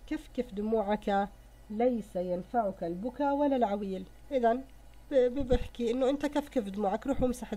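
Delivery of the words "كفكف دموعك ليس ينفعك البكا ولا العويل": poem recitation. Shown as a demonstration. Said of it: "يقول".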